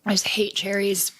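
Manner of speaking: slow unvoiced whisper. Real, not acted. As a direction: whisper your disgust. Dislikes cherries while tasting.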